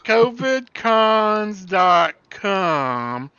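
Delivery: put-on slow, drawn-out Southern accent. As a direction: drawl the web address like a Southern gentleman. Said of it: "I will read it in a Southern voice".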